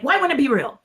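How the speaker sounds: genuinely baffled; mild mock surprise; puzzled question. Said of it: "And he was like".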